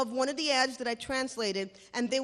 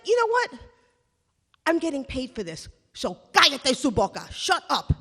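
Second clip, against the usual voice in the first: telling family off; 3 semitones higher, 5 dB louder than usual. Retold or imitated.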